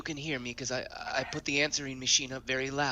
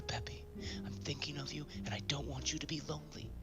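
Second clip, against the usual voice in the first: whispering; 7 dB quieter than usual. Acted. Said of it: "I have to whisper".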